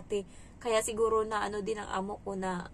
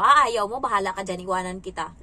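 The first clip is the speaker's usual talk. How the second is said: much louder, then settling into a firm warning; loud threat to a child; 2 semitones lower, 9 dB louder than usual. Retold or imitated. Nanny warning the child she will leave him, loud at first. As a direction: bark it at the stubborn kid, then cool down. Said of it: "Sabi ko".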